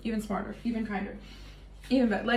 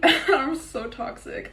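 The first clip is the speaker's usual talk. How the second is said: giggled through, slow and higher; laughing confession; 4 semitones higher, much slower than usual. Real, not acted. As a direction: laugh it out, half-proud.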